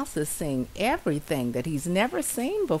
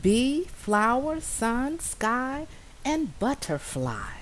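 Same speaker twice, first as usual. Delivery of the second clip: high, wondering mouse listing; awed murmur; 8 semitones higher, slower than usual. Acted. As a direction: savour each word in awe. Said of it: "murmured Little Mouse".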